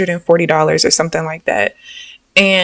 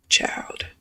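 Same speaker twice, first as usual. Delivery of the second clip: whisper; 10 dB quieter than usual. Real, not acted. Whispered exclamation.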